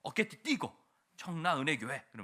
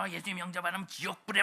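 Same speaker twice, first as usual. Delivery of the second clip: louder, higher scare-tactic warning; threatening evangelist; 7 semitones higher, 6 dB louder than usual. Retold or imitated. Evangelist threatening a child with hell, mock menacing. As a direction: loom over the child with hellfire. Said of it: "막 이렇게 해가지고".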